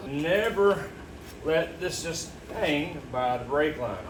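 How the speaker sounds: "Never" hit high and alone, then "let this just hang by the brake line" slow and firm; stress on never. Real, not acted. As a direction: punch "Never" with a long pause after it. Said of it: "I can't stress it enough".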